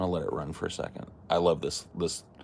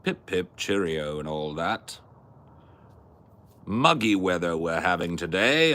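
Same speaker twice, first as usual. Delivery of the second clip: mock English accent; 3 semitones higher, 4 dB louder than usual. Asked to try English, hammed-up English accent. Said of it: "Can you try English?".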